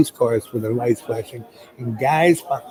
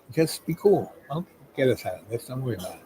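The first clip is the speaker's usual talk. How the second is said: calming; 7 dB quieter, faster than usual. Retold or imitated. Calming the panicking passenger.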